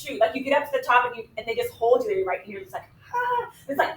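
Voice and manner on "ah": high, small suspenseful "ah"; thin high mock-scared cry; nervous held "ah". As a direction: imitate a rider dangling before the drop. Imitates waiting at the drop.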